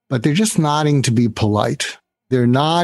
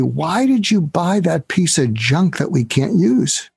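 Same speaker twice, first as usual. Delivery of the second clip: annoyed boss; 4 semitones higher than usual. Retold or imitated. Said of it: "the boss is gonna say".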